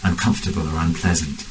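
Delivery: measured meditation guidance with long pauses; guided meditation. Real, not acted. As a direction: guide the group unhurriedly, phrase by phrase.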